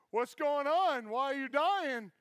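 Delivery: loud, high comic alarm; frantic, clueless rescuer; panicked demand. Retold or imitated. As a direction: blurt it out at the patient in mock panic. Clueless rescuer confronts dying kid.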